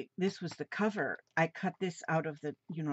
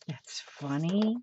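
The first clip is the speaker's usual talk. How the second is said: slow whispered comment, amused; whispered aside; slower than usual. Real, not acted. Reacting to a joke on the frog card, slow whisper.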